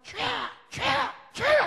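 very high, loud prayer cry; demonstrated full-voiced plea. Shown as a demonstration. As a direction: wail it out to open fervent prayer. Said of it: "세 번 부르짖고".

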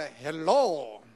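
낮고 아주 느리게 늘인 "헬로"; 서툰 영어로 조심스레 인사하듯; 어색한 영어 인사. Retold or imitated. (낮고 느리게 끄는 어색한 "헬로")

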